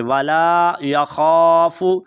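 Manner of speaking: यख़ाफ़ु with scraped kh and long aa; slow recitation, voiceless ख़ in यख़ाफ़ु; careful Khaa. Shown as a demonstration. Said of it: "बल्कि खा पढ़ेंगे".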